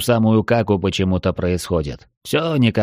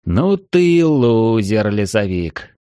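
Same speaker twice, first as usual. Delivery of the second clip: mocking; slower than usual. Friend mocks hero.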